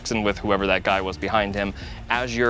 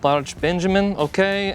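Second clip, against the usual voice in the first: meek clerk voice; 7 semitones higher than usual. Acted. Clerk repeats the name.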